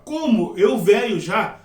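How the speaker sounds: slow, swooping question in character; exaggerated questioning intonation on "como eu velho já"; Nicodemo. Shown as a demonstration. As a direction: act out an old man's question, stretching each word. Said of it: "Mas ele fala".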